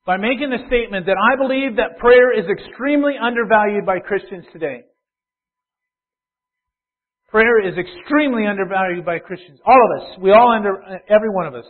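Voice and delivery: loud, insistent preacher's declaration; emphatic preaching. Real, not acted. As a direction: press the point on the whole congregation. Preacher at full force.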